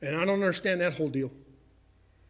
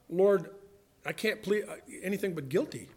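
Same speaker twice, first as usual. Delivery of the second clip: humble plea; 2 semitones lower, 6 dB quieter than usual. Acted. Acts out a sinner pleading guilty.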